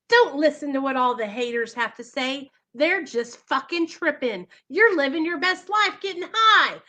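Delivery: the cajoling ego talking her into using, building up; voice of her addiction. Retold or imitated. Her addiction sweet-talking her, lightly voiced coaxing. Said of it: "where my pride and ego just pumped me up".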